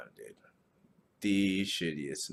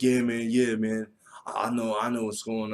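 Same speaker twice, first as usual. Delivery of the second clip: neighbor voice; 4 semitones higher, 6 dB louder than usual. Retold or imitated. Neighbor voiced in retold encounter.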